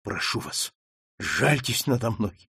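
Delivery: soft, shaking, frightened; whisper-quiet begging, all trembling; trembling plea. Acted. Daughter begging her mother, softly and trembling. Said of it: "вся дрожа сказала Маргарита".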